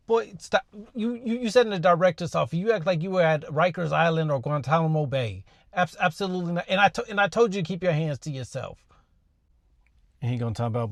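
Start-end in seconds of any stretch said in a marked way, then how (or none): 0.1-6.7 exasperated. Real, not acted. Teacher scolds student to audience.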